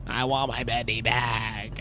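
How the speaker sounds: low, quiet, slow lament; forlorn mumble. Real, not acted. Player wants lost Bendy back, forlorn and quiet. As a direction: sulk softly, dragging the words.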